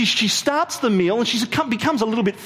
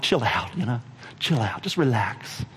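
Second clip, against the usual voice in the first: soothing; 7 semitones lower, 3 dB quieter than usual. Acted. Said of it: "twenty-first century language".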